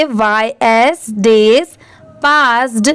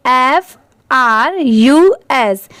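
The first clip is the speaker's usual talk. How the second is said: slow spelling; slower than usual. Shown as a demonstration. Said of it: "इतना क्या हो गया?".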